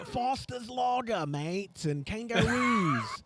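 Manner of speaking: a hammed-up Australian accent, drawn out; mock Australian, slow and stretched. Teasing the Australian listeners in a hammed-up Australian accent. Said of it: "every time you do your Australian accent".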